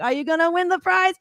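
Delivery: imitating the DJ quizzing a kid. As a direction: tease the little girl. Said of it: "He's like".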